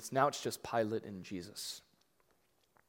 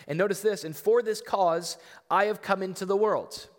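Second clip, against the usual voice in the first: preaching fervour; 8 semitones higher, 6 dB louder than usual. Acted. Preaching climax on Jesus' words.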